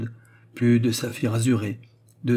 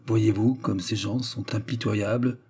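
coldly. Acted. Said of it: "dit froidement".

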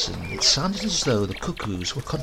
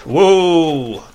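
loud, higher call to the horse; gloomy whoa; 6 semitones higher, 10 dB louder than usual. A narrator's reading. Grandfather stopping the horse, loud call. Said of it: "said my grandfather gloomily".

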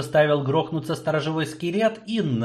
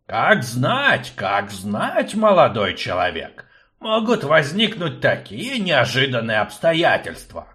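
put-on fussy old man; 2 semitones higher than usual. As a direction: play the fussy old rector. Akcium sly reply.

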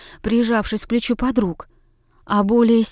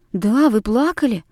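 pressing, insisting she did cry; insistent. Acted. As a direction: push the point, not gentle. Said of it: "приставали мы". (девочки настойчиво пристают к учительнице, с нажимом)

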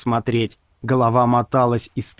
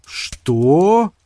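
stunned; 6 semitones higher, 4 dB louder than usual. A narrator's reading. Sorcerer stunned by refusal.

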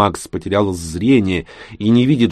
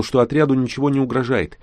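ordinary delivery

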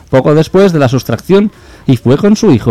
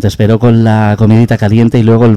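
malicious tone; 4 semitones lower than usual. Retold or imitated. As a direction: tease him with a hint of mischief. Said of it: "en tono malicioso". (tono pícaro y malicioso, más lento)

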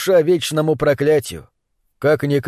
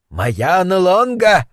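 slow, higher, assuring self-announcement; 4 semitones higher, much slower than usual. Acted. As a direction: insist on the name, slowly. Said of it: "заверил его собеседник".

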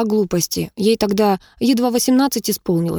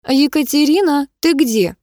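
higher, calling from afar; a woman calling out from another room, raised and piercing; 7 semitones higher, 3 dB louder than usual. Acted. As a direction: call her name across the house. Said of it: "закричал пронзительный женский голос".

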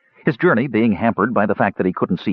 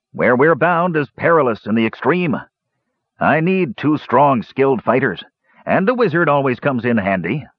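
higher-pitched dwarf, deliberate and emphatic; grand dwarf; 6 semitones higher than usual. A narrator's reading. Dwarf recruiting fighters for his quest, grand. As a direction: declaim the quest in dwarf character.

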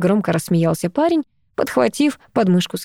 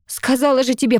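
angry dismissal; 6 semitones higher than usual. Acted. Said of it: "разозлилась я".

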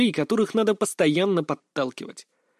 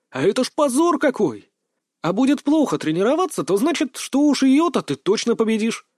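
mock revelation; 7 semitones higher, 3 dB louder than usual. A narrator's reading. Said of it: "сделал я тут вид, что меня осенило".

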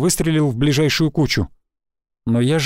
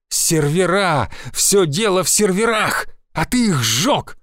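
slow, higher, each word spat out; slow furious accusation; 4 semitones higher, slower than usual. A narrator's reading. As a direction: drag out the blame word by word. Enraged woman accusing him.

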